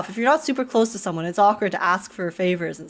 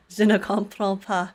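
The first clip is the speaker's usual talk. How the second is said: French phrase. Shown as a demonstration. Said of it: "only things I know in French are".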